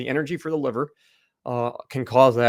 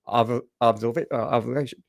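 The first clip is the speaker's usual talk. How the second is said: choking on the words; struggling to get the word out. Real, not acted. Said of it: "I'm choking there".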